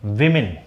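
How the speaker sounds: विमेन said as "wi-min", first syllable "wi"; correct pronunciation. Shown as a demonstration. Teacher gives students the plural विमेन as "wi-min". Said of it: "इसका pronunciation होगा".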